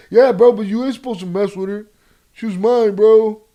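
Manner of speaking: loud, high street-tough voice; heated thug arguing back; gangster voice. Retold or imitated. Acted quarrel, second voice.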